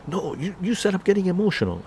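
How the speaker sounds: high-pitched, protesting retort; mock indignant mother. Mother arguing back at her teacher, mock indignant. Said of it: "she got really mad".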